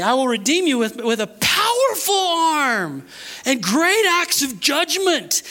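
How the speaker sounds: high, slow, building scripture proclamation; forceful preaching. Acted. Preacher proclaims God's redemption to the congregation, forceful. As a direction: stretch the big words, rising in force.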